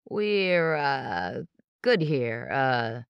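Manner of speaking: halting, with nervous uhs; tripping over words. Acted. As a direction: stumble through it, caught out. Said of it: "Justin tripped over his words".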